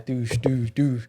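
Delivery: quick imitated punch thuds; mock impact noises; punch sound effects. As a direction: mouth the hits of a combo. Imitates a four-piece punch combo.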